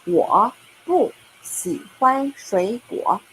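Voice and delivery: slow, careful teacher read; slow, deliberate demo of 我不喜欢水果; slow model sentence. Shown as a demonstration. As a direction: spell it out slowly for students. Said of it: "that can be".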